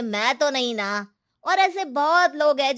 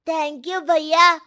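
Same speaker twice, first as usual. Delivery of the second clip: grateful thanks; 5 semitones higher, 4 dB louder, much slower than usual. Acted. Hungry children thank the waiter.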